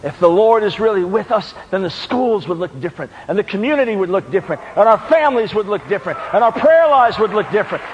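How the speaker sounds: rhythmic list, gaining force; building preaching refrain. Real, not acted. Preacher applying Gideon's words to schools and country, steadily building. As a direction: build each phrase toward the last.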